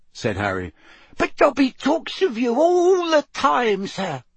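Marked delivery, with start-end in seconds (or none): 1.2-4.2 slow, very high tiny voice; awestruck elf squeak. A narrator's reading. House elf tells Harry of her friend's praise, awestruck. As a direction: gush in a squeak, full of awe. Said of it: "looking awestruck".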